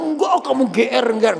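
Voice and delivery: mildly acted high protest; protesting father. Father tells child not to presume, protesting.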